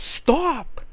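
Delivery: high-pitched mock yell; retold yell. Blake tells the fighters to quit, high imitated yell. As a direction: cry it out high, imitating her. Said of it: "Blake yells".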